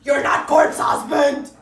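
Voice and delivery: loud, stretched-out shout at a poser; exasperated yelling. Acted. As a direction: yell each phrase in mock outrage. Yelling at the posing boy.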